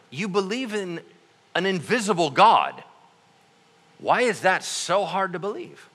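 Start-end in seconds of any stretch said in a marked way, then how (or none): none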